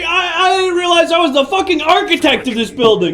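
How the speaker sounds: sarcastic. Acted. Sarcastic comeback in argument.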